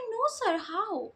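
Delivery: lifted, sweet and innocent "sir, how?"; sweetly asking. Retold or imitated. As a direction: ask it lovingly, playing innocent. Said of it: "इतने अच्छे से प्यार से बोला".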